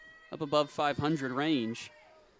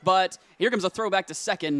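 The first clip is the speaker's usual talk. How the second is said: raised, loud running commentary; excited play-by-play; 5 semitones higher, 6 dB louder than usual. Real, not acted. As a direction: call the play urgently as it happens. Live call of bunt play.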